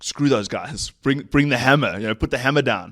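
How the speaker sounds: punchy mock tough talk. Retelling a call to get tough, punchy. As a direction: urge them on forcefully, as a retelling.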